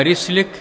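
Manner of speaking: رسلك with a short "i" after the ra; kasra on ra. Shown as a demonstration. Reader giving the well-known reading, رسلك voiced "rislik". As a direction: say رسلك as "rislik", not "raslik". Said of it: "بكسر الراء على المشهور".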